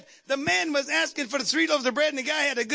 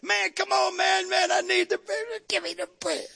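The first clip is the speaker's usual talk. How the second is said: shouting for bread; 6 semitones higher than usual. Acted. Desperate neighbour demanding bread.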